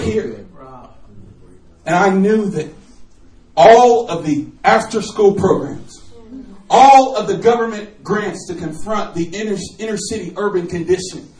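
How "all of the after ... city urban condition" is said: building preach. Acted.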